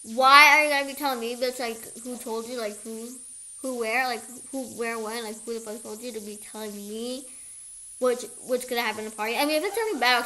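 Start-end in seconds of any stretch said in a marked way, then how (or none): 0.0-7.2 pissed and annoyed. Retold or imitated. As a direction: open with a burst of irritation, then ease off. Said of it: "I was kinda pissed and annoyed".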